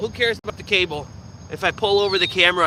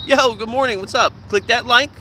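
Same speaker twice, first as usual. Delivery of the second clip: mock vlogger intro; 5 semitones higher than usual. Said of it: "vlogger intro parody".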